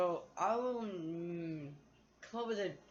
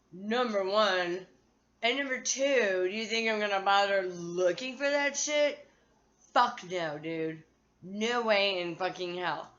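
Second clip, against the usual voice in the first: loud, slow, counting the points off; emphatic rant; 5 dB louder than usual. Real, not acted. Ranting to viewers about the lost stud, loud. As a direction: hammer each point home.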